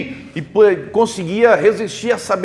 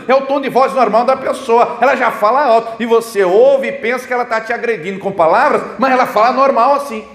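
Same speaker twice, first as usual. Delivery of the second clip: loud speech demo; 3 semitones higher, 3 dB louder than usual. Shown as a demonstration. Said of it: "falando alto, gritando".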